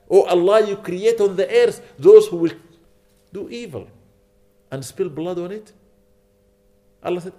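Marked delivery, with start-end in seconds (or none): 0.1-5.7 angels' astonished question. Retold or imitated. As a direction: ask Allah in wonder, then sink to a hush. Angels question Allah in retold scene.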